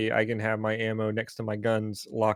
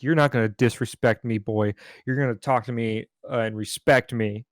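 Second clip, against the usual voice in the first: a touch louder, stern and confrontational; angry cop; 3 dB louder than usual. Retold or imitated. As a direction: lay down the law to a mouthy kid. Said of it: "he flipped a fucking switch, got in my face".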